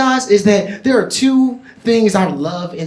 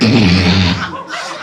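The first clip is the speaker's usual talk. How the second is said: comic's exaggerated imitated noise; mimed noise; 13 semitones lower than usual. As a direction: act out the noise in place of words. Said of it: "I'm in that bitch like".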